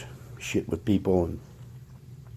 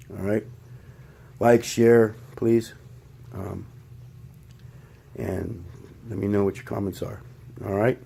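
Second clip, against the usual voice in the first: trembling voice from the shakes; shaky voice; 2 semitones higher than usual. Real, not acted. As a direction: speak with a slight tremor. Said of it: "Sorry for the shaking".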